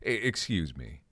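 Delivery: under the breath, voiceless; stern whisper. Acted. Hugo about to confront his smoking son, whispered. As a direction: hiss it through your teeth, barely audible. Father marching over to son.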